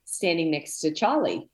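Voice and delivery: slow, imitated Scottish voice of the psychic; a gentle Scottish accent with unhurried words. Psychic friend foreseeing a little boy, in a light Scottish accent. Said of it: "I know the accent kills me".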